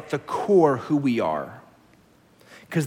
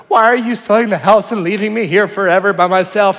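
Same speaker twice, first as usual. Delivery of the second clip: imitating crying daughter; 5 semitones higher, 8 dB louder than usual. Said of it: "She goes".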